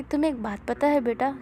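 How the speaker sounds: soft, tender aside to a son; gently, as a fond mother; lovingly. Acted. Mother gently teasing the clumsy boy about the dough, softly and lovingly. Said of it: "बहुत प्यार से कहती है".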